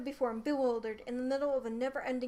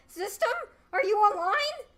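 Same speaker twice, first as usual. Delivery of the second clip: higher, louder shout into space; calling out loud; 10 semitones higher, 9 dB louder than usual. Acted. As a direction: call the system at full voice. Yelling for the system.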